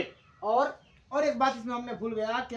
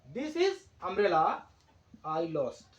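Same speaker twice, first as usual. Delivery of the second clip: very slow reading of the example; slow dictation; 4 semitones lower, much slower than usual. Shown as a demonstration. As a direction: spell it out slowly for the class. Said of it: "इसका full stop को हटा करके कमा कर दिया". (उदाहरण धीरे-धीरे पढ़कर)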